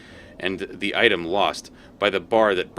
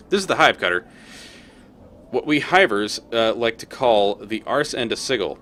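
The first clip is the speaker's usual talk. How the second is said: louder, higher chipper street hawker; cheery collector; 3 semitones higher, 4 dB louder than usual. Acted. Collector hails the player, chipper and loud. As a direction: greet like a friendly grubby hustler. Voices Molt.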